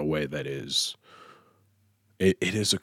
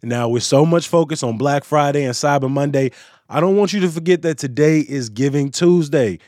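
brighter, louder news-segment voice over music; upbeat news read; 7 semitones higher, 6 dB louder than usual. Acted. Host reads the closing news roundup to listeners, upbeat radio read.

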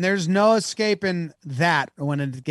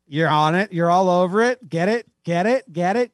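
louder, rising cheer-on; urging on; 4 semitones higher, 5 dB louder than usual. Real, not acted. Co-host urges the guesser toward the answer, urging him on. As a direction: egg them on with building energy.

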